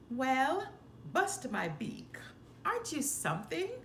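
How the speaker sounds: a hint of a pompous old owl; mildly grand, quick exclamation; lightly voiced Owl. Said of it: "pronounced Owl".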